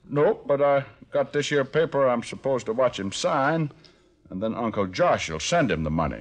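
put-on Arkansas country accent; country hick act. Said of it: "How about a Swedish dialect?".

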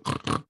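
imitated pig snorts; mock pig noises. Host imitating the drowning swine for a dramatic reading, mock snorting.

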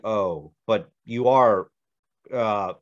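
imitating a flustered, slow stall; halting, unfinished. Clients lost for words at the actor's refusal, halting. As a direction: trail off as if stuck for words. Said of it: "they couldn't finish their sentence".

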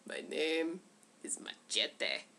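low, soft, slow gruff line; Machete voice. Retold or imitated. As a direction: growl it like a stoic action hero. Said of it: "He's just like".

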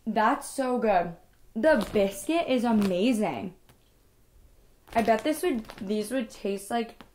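talking with food in mouth; chewing. Real, not acted. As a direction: mouth partly full. Seen 0: bit biscuit at -7; still chewing, holding it while speaking.

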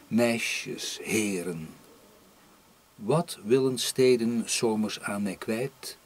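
measured poem recital, phrase by phrase with pauses; poetry reading. Acted. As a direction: poet reading aloud to an audience. Poet reads second poem aloud.

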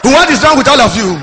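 angry stammering teacher, pitch rising. Retold or imitated. Stammering teacher scolding the class, stuttering angrily. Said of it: "He said".

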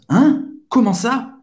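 high rising surprised question. Shown as a demonstration. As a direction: react in disbelief, pitch jumping up. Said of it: "expressar uma, uma surpresa".

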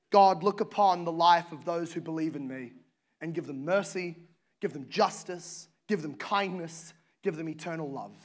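low, hushed, tender plea fading to almost nothing; soft pleading. Acted. Blood of Jesus pleading to God.

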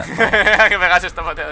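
repite la frase despacio riéndose; imitando entre risas. Retold or imitated. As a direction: burla lenta entre risas. (imitación burlona riendo)

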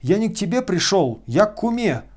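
high, loud bawled protest; high indignant bawl. A narrator's reading. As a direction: howl it in protest. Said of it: "вопил Тарантьев".

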